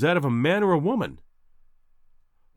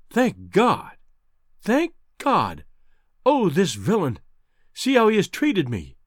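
overwrought relief; 4 semitones higher, slower than usual. A narrator's reading. Wife's relief turning to outrage.

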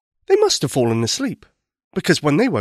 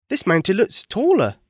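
hopeful; 6 semitones higher than usual. Acted. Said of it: "said Thomas hopefully".

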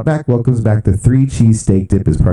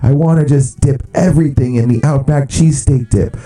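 mock crazed fans; 7 semitones higher than usual. Host imitating fast food forum fans, hammed-up giddy cheering. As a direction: gush like a fan who lost all composure. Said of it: "are going crazy, going like".

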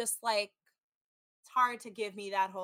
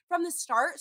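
scoffing repeat; 6 semitones higher, 3 dB louder than usual. Retold or imitated. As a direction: drag it out in disbelief. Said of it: "It's only been two weeks".

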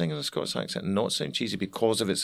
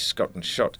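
Scottish accent on skirt and shirt; slower than usual. Shown as a demonstration. Explaining singing vowels to interviewer, Scottish accent. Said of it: "Whereas in Scotland".

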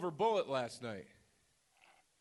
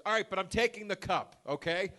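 slightly hammed-up elderly man, pitched up; old man impression; 4 semitones higher than usual. Old man claiming his cup from the clerk, lightly mimicked insistence. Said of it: "this ninety-year-old man walks in".

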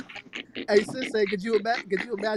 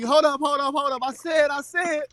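stumbling rapper imitation; 6 semitones higher than usual. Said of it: "That nigga be".

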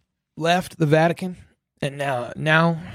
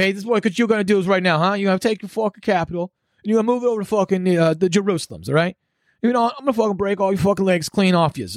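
mock thug; 4 semitones higher, faster than usual. Acts out Trump threatening them.

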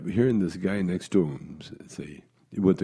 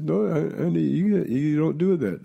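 daughter correcting; 9 semitones higher than usual. Retold or imitated. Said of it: "Fran says".

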